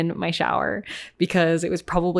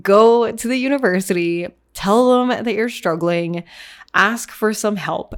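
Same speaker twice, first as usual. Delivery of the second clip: higher, louder, slow firm advice to herself; firm self pep talk; 3 semitones higher, 5 dB louder, slower than usual. Retold or imitated. Remembering telling herself to get help, firm higher pep talk. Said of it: "I was like".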